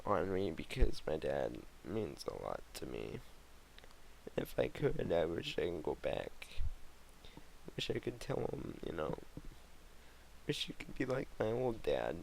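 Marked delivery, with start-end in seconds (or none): 4.4-12.2 fighting back real tears; getting emotional. Real, not acted. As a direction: voice catching, half-whispered wish. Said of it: "I'm getting all emotional".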